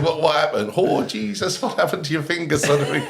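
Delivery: alarmed questions in a wobbly attempt at Irish; bad Irish accent. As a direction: have a poor go at an Irish accent. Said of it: "I can't do an Irish accent".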